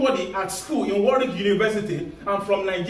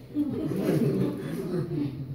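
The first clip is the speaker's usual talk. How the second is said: soft, low-key laugh; laughter; 3 semitones lower, 6 dB quieter than usual. Real, not acted. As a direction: laugh softly at the thought. Laughter after the self-doubt quote.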